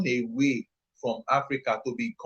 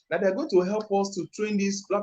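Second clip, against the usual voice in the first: normal talking voice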